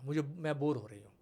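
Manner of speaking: put-on breathy whisper of a bored kid; whispered complaint. Mother imitating her bored daughter, whispering. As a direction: whisper it like a sulking child.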